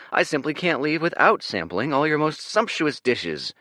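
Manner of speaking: "sumptuous" said high and lavish; grand merchant. Acted. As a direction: savour "sumptuous" like a rich patron. Dorian plays wealthy merchant.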